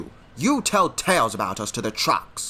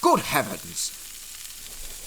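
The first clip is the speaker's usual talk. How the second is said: shocked gasp; much slower than usual. Acted. Engine drenched by water splash.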